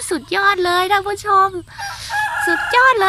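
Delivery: high, excited cry to the viewers; thrilled exclaim. Real, not acted. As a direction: burst out in delight. Raving about the vegetables. (อุทานตื่นเต้น เสียงสูง)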